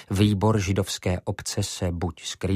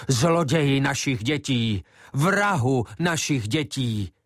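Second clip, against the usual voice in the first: hoarse screaming; 4 semitones higher than usual. Acted. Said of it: "chrlily do ochraptění".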